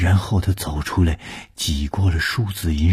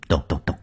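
knocking sound; faster than usual. A narrator's reading. Imitated knocking on the door.

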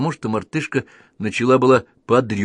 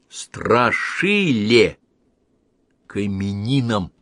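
slow reading aloud; much slower than usual. Acted. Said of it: "и прочитал".

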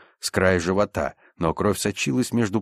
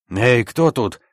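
ordinary delivery

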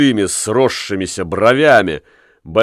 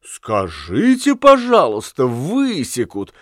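astonished. Acted. Fat Lamme echoes the girls in disbelief, astonished. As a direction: repeat the threat in plain amazement. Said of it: "удивились они".

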